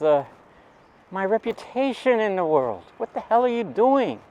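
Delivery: a doctor father furious at his son; angry father. Retold or imitated. Father scolding son after arrest.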